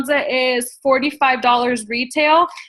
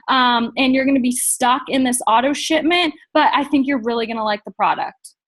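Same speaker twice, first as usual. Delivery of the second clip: pushy pitch. Shown as a demonstration. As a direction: demo of the wrong way, a bit flat and pushy. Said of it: "if you say it like that".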